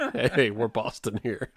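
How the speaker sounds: slow, understated Boston parody at normal pitch; mock Boston accent. Co-host repeating the running joke, mock Boston accent. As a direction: drag out a half-hearted Boston accent. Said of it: "do a Boston accent".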